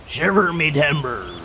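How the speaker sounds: low, slow pirate exclamation; deep, drawn-out pirate voice; pirate growl. Shown as a demonstration. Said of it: "lower your voice to, uh, like a, like a growl".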